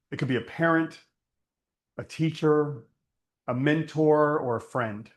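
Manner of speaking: unhurried meditation voice with long pauses; guided meditation. Acted. Teacher leads listeners to think of someone trusted, guided meditation. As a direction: guide them inward, leaving space after each phrase. Leads a closed-eye reflection.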